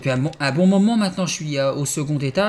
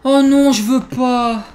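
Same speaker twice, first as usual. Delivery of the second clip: whimpering protest; 8 semitones higher, 7 dB louder, slower than usual. Real, not acted. Dreading going on.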